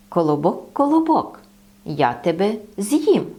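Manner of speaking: a wolf voice that starts low; lightly voiced hungry wolf; gruff wolf. Wolf threatens the bun. (вовк погрожує колобкові)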